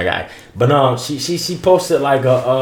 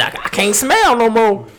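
high mocking voice; 9 semitones higher than usual. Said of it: "She said".

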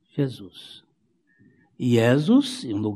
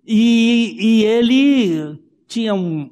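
preaching emphasis; 7 semitones higher, 5 dB louder, slower than usual. Real, not acted. Preacher raises voice mid-sermon.

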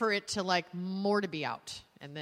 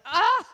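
sudden high loud "Ah!"; exasperated yelp; 12 semitones higher, 10 dB louder than usual. Retold or imitated. She yelps when Jason never told him. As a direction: let out a burst of frustration. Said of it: "I was like".

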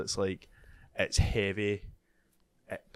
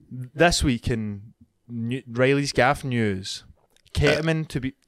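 mock news intro; 5 dB louder, slower than usual. Announcing his podcast news segment.

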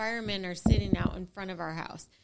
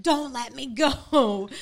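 mock panic; 3 semitones higher, 7 dB louder, slower than usual. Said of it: "And Grumpy is freaking out".

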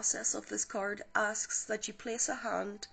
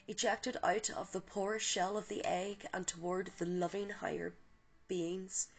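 calm guided visualization read; guided meditation. Acted. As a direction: ease the listener gently into the light. Leads a guided healing meditation.

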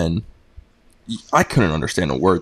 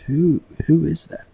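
puzzled squeak; 8 semitones higher, slower than usual. Retold or imitated. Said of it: "And I'm like".

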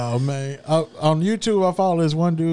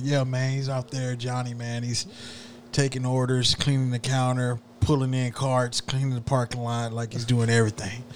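a tired manager listing chores quietly; mock manager; 4 semitones lower, 6 dB quieter than usual. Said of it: "He's like".

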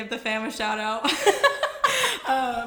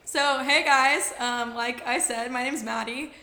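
sounds like a man. Real, not acted. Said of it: "that's probably why I sound like a man".

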